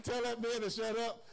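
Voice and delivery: mock angry demon voice. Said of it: "something in me that said".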